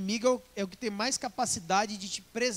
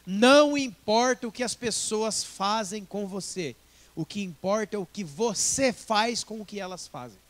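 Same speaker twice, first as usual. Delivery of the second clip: slow, weighted motto with stress on você; solemn recitation; quoted motto; 5 dB louder than usual. Shown as a demonstration. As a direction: lay down the saying deliberately, leaning on você. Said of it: "eu tenho uma frase".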